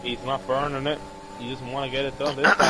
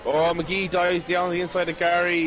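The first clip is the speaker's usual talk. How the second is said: excited commentary; 4 semitones higher than usual. Real, not acted. Overtake called live in a race.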